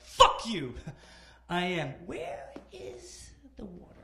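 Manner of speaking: loud, high, out-of-breath retort; breathless outburst. Retold or imitated. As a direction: gasp it out, spent. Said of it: "I was like".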